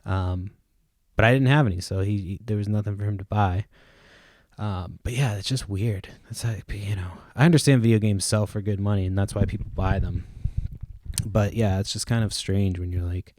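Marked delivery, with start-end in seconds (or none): 4.6-7.1 quick unvoiced whisper to himself; breathy throwaway whisper; whispered aside. Real, not acted. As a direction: drop to a whisper mid-thought. Aside muttered under breath.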